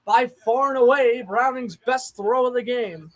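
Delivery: broadcast call with excited rises; play-by-play that swells on the big gains. Acted. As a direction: describe the drive like a TV announcer. Play-by-play of Jaguars drive.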